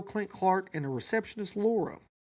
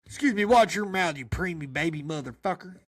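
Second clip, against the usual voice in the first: daddy scolding. Acted. Father scolding the baby for his mouth. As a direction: snap at the baby to watch it. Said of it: "Diesel's supposed to say that anyway".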